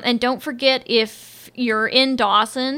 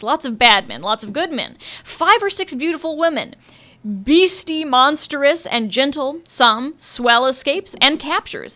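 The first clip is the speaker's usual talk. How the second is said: dramatic blurb reading. Acted. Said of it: "to quote from The Dust Jacket".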